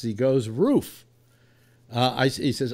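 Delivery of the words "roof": lighter, raised bark on Roof; imitated dog bark. Doubting bartender mimics the dog, imitated bark. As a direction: mimic the dog's rising bark. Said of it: "That's the way a dog barks".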